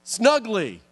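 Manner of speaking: snuggly said as a tough god would, firm and falling; tough godlike voice. Shown as a demonstration. Angel trying to say snuggly like a tough god. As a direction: try to make snuggly sound mighty. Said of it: "Can you do snuggly in a tough, godlike voice?".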